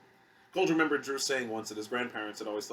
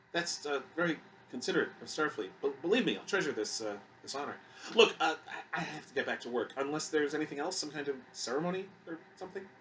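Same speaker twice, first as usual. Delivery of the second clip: halting, higher-pitched, awkward acceptance; flustered crewman; 5 semitones higher than usual. Acted. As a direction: stumble politely, eager to get away. Voices flustered Kogelman in dialogue.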